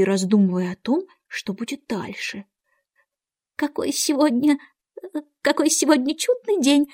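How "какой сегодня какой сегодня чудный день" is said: high, hesitant small talk; timid. A narrator's reading. White Rabbit makes small talk with Alice, timidly. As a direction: say it meekly, raised, restarting nervously. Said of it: "робко проговорил кто-то".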